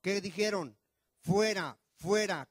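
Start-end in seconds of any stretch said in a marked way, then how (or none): 1.2-2.5 a loud cry of the crowd demanding he go; crowd shouting. Acted. Preacher voicing the Jewish crowd's demand, loud shout. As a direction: shout it out like an angry mob. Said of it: "Ellos gritaron".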